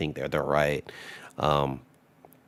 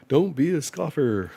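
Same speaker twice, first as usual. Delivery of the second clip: high, louder call not to be a scoffer; higher, louder warning; urgent warning; 11 semitones higher, 4 dB louder than usual. Real, not acted. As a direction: cry it out as a plea.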